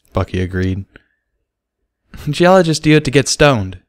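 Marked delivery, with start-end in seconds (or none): 2.3-3.8 higher, grinning pun; playful punchline; smiling joke. Acted. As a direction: say it with a grin. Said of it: "Sparkler said, smiling".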